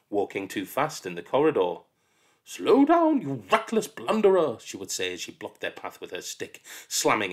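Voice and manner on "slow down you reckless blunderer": much higher, louder shout; shouted scolding. Acted. Miss Seeth shouts at a child running in the corridor.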